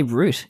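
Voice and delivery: 'route' with a long oo vowel; 'route' like 'root'. Shown as a demonstration. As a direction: pronounce 'route' to rhyme with 'boot'. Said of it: "No, they say route".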